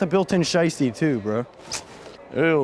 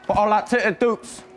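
high, slow mock Baltimore accent; 7 semitones higher than usual. Quoting a supposed robber, mock Baltimore accent. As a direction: draw it out in a hammed-up Baltimore accent. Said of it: "Nobody talks like that?".

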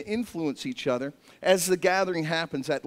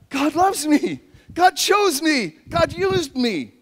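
slow joyful declaration; 7 semitones higher, 3 dB louder, slower than usual. Acted. Joyful exclaimed realization.

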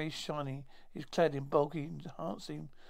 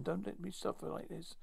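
softened, slightly raised narrated plea; whispered plea; 3 semitones higher, 6 dB quieter than usual. A narrator's reading. Wounded Timon pleads to Cheyenne, softly voiced. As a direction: read a dying plea softly, short of a whisper. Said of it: "he's a whisper to Cheyenne".

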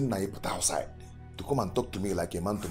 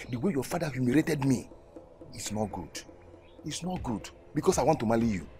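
put-on a humiliated suitor venting at his girlfriend; hurt indignation. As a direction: vent the humiliation. Humiliated suitor's angry outburst.

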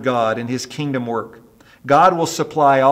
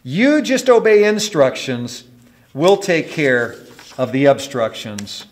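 raised, deliberate command easing at the end; stern repeat; 5 dB louder than usual. Acted. Preacher repeats the controller's words to congregation, stern. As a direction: say it like a firm order, slowing down. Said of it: "with a stern voice".

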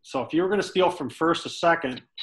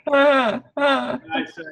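breaking up laughing; 10 semitones higher, 5 dB louder, much slower than usual. Real, not acted. Cracking up mid-story.

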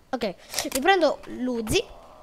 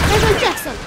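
loud, high shout of the name; excited call-out; 6 semitones higher, 8 dB louder than usual. Real, not acted. Gamer spotting an opponent in game, excited shout. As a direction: shout it out as you spot them.

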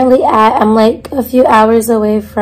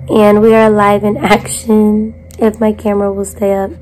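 breathy whisper from a lost voice; whispering, voice nearly gone. Real, not acted. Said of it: "I lost my voice".

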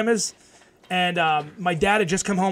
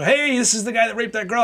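higher-pitched calling out, only mildly raised; retold call-out; 5 semitones higher than usual. Man exposing a panhandler to passers-by, retold call-out. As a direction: re-enact calling someone out in public.

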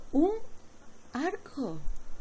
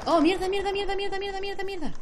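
cursing under breath; 11 semitones higher than usual. Real, not acted. Her character is nearly dead.

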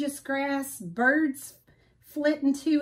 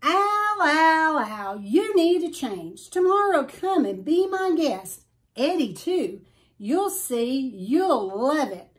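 high, louder, eager bird voice; excited big bird; 5 semitones higher, 4 dB louder than usual. Acted. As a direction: coax Al to come, bright and pushy.

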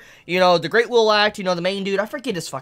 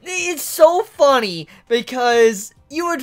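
laughing; 7 semitones higher, slower than usual. Real, not acted. Cracking up over the chapter.

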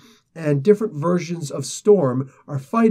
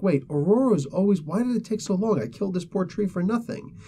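higher-pitched, lightly acted exasperation; mock frustration; 5 semitones higher than usual. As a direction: imitate her puzzled complaint in a raised voice. Heroine frustrated at her failure.

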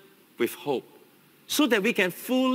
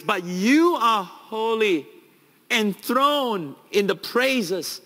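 slow, louder, every word drawn out; reverent slow praise; 4 semitones higher, 4 dB louder, slower than usual. Retold or imitated. Preacher voicing Jesus praising God, slow and reverent. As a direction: linger over each word in awe. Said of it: "He would have used this phrase".

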